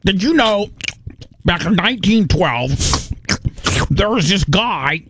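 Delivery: talking while chewing; mouth full. Shown as a demonstration. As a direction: say it through a mouthful. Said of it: "And you say it while you're chewing".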